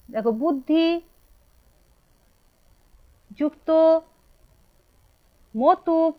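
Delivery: বুদ্ধি, যুক্ত, মতুপ said as separate words with long pauses; spaced dictation. Shown as a demonstration. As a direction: dictate it piece by piece. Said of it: "teacher dictating word by word".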